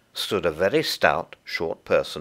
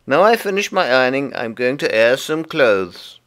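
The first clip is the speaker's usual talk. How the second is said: high, loud little creature voice; busy Tiggywinkle; 6 semitones higher, 6 dB louder than usual. Acted. Tiggywinkle explains the washing to Lucy, high and busy. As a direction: chatter away as a small fussy laundress.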